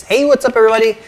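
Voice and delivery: high, electronic voice filter; voice changer. Shown as a demonstration. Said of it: "use the buttons to change the voice".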